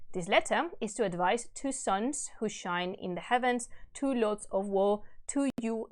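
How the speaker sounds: measured, solemn storytelling; stately reading of a verse tale; epic story narration. A narrator's reading. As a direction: read the old epic aloud with gravity. Reads epic aloud.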